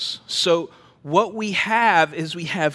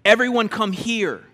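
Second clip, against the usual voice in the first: calling everyone in; loud summons to all the people; emphatic call; 5 semitones higher, 4 dB louder than usual. Retold or imitated. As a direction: beckon the crowd loudly. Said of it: "so emphatic about it".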